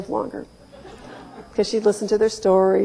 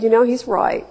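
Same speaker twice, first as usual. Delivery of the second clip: calm. Retold or imitated. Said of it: "So I very calmly said".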